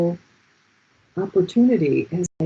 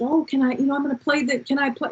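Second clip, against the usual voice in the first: higher, pleading imitation of tearfulness; half-crying; 8 semitones higher than usual. Asking her friend to hear a song, mock-tearful plea. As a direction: plead with a mock touch of tears. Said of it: "I'm kinda crying".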